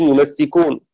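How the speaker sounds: يمسكون with the mim opened by a fatha and a doubled sin; Hafs' reading. Shown as a demonstration. Teacher demonstrating Hafs' reading for students, careful. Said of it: "بفتح الميم وتشديد السين".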